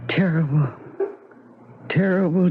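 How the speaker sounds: breathless whisper, low; wife judging her own failed attempt, hushed whisper; whispered despair. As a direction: barely voice it, crushed. Wife after failed suicide.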